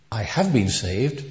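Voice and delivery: "have" picked out, slow delivery; stress on HAVE. Retold or imitated. Scholar explaining salvation's tenses to a lass, stressing "have". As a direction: slowly lean on "have" to mark the tense.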